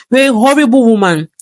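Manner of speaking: spat insult. Acted. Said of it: "Goldie spat".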